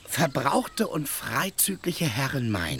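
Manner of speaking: slowly reciting a letter from memory; groping for the words of the letter; halting recital of a half-remembered letter. Acted. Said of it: "also am Anfang hieß es".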